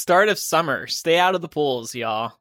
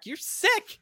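mock tantrum; 13 semitones higher, 5 dB quieter than usual. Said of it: "You wanted a tantrum".

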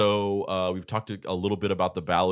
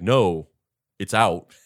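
insistent customer; 7 dB louder, slower than usual. Retold or imitated. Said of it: "And she's like".

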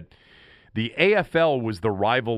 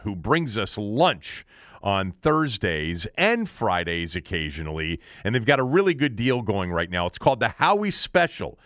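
chipper 1950s ad. Acted. Live read for a restaurant sponsor.

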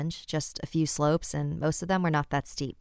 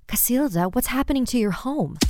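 surprised; 8 semitones higher, 3 dB louder than usual. Acted. Mother sees house burning.

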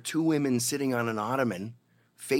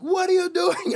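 much higher, louder mock shout; imitated angry challenge; 7 dB louder than usual. Angry gang guys confront him: high loud mock shout. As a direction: yell it like a furious gang guy. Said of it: "And they're like".

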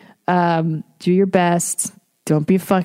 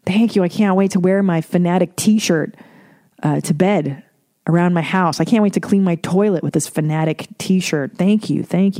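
mock-grateful gushing thanks; sarcastic overly polite thank-you; fake gratitude. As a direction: pretend to love a useless gift. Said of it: "you'd have to act like".

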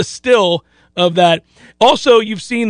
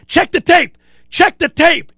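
higher insistent yell; mock yell; 7 semitones higher than usual. Quarterback yelling at coach on sideline, mock yell.

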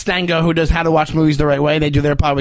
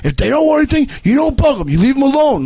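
put-on Russian accent; 7 semitones higher than usual. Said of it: "Like he says in his accent".

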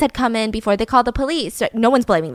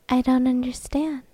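lowercase monotone; 5 dB quieter than usual. Retold or imitated. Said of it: "speaking in lowercase".

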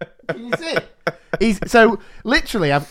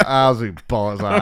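Ferguson impression; 6 semitones lower than usual. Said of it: "I was just going like".

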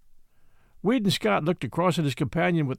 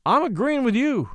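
sly agreement; 7 semitones higher than usual. A narrator's reading. Matt teases Scott from his bunk, sly agreement. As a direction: agree while half hiding a snicker. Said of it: "whether or not the other had snickered".

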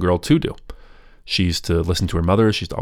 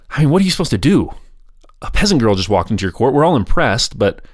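incredulous; 4 semitones higher than usual. Retold or imitated. Court's incredulous reaction.

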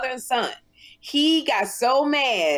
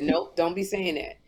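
lower, measured Oprah voice; Oprah impression; 4 semitones lower than usual. Oprah counseling Sherri about her son, lower and measured. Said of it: "She said".

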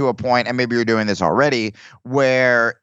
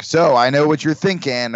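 comic working the crowd, higher; stock stand-up opener; 4 semitones higher than usual. Acted. Comic opening a TV showcase set, stock stand-up delivery. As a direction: put on a hack showcase opener. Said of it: "everyone would open with that".

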